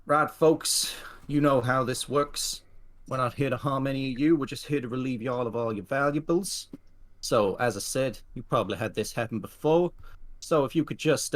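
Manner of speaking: gruffly courteous hold-up speech; older man. Acted. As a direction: voice an older train robber addressing the whole carriage. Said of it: "the older man goes".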